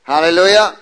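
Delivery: loud ringing praise; joyful loud hallelujah; shouted hallelujah. Real, not acted. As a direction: call it out to the church.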